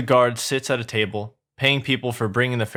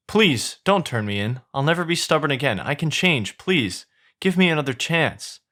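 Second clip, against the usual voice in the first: higher-pitched, lightly acted begging; pleading; 5 semitones higher than usual. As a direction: plead as a donkey about to be sold. Donkey begs not to be sold.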